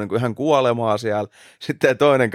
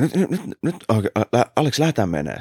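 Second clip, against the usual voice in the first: panicked; 3 semitones higher than usual. Retold or imitated. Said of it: "sellainen hirveä, tiedätkö, niinku paniikki-ilme".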